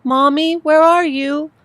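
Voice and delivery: put-on a worried child asking for his mother; child's high voice. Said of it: "His voice seemed much higher over the phone".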